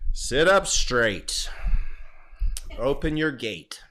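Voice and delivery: loud, playful Qigong instructor. Shown as a demonstration. Instructor showing how Qigong sounds, mock teaching voice. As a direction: project like a teacher leading the class. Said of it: "what does it sound like".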